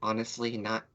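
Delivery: halting, choked-up confession with long pauses; choked whisper. Acted. Milo leaning in at the urn to a lost friend, choked whisper. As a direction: force words out one by one, voice catching. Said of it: "in a choked whisper".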